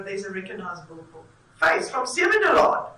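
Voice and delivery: mock thrilled cry of spotting a familiar face; excited recognition. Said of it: "we stand up and we go".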